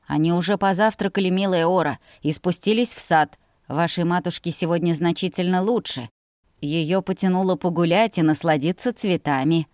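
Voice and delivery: lightly voiced courteous steward; kindly steward. Steward telling the young lady where her parents are, kindly. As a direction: report gently to the young mistress.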